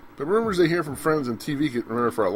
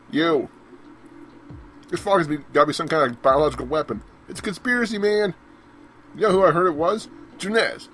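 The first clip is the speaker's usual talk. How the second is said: higher, louder paranoid rant; conspiracy nut voice; 4 semitones higher, 4 dB louder than usual. Acted. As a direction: sell the conspiracy like a crank.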